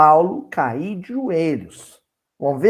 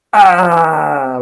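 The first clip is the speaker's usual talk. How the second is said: touched cry; 8 dB louder than usual. Real, not acted. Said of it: "Eu desmorono".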